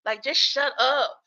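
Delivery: exasperated shut up, stretched out; annoyed "shut up". Retold or imitated. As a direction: tell her off, fed up. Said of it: "Where I was like".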